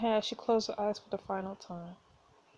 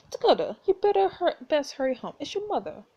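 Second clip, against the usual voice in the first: urgent higher call with raised voice; 5 semitones higher, 3 dB louder than usual. Acted. Briar's mother calls Dakota home, calling out. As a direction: call out from down the road.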